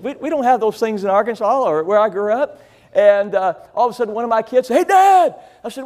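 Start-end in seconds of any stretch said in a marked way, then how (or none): 4.8-5.4 put-on kid calling out. Kid calls out to dad.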